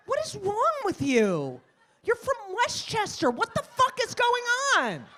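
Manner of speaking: high, loud comic outrage; hammed-up, incredulous scolding; exasperated outburst. Retold quarrel over the put-on accent.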